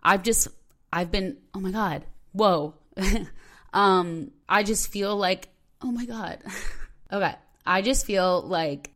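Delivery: fighting tears mid-sentence, trying to keep talking; holding back tears. Real, not acted. Host on her podcast tearing up over self-doubt, choked and unsteady. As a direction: voice wobbling on the edge of crying. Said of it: "I could, like, literally cry right now".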